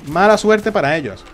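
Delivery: triumphant gloating call. Real, not acted. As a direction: punch it out the second time. Repeated louder and higher.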